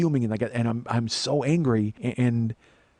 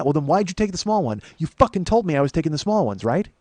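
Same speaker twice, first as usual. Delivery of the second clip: higher-pitched, indignant grilling; retold angry accusation; 5 semitones higher than usual. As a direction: reenact catching him out. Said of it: "I was fucking mad".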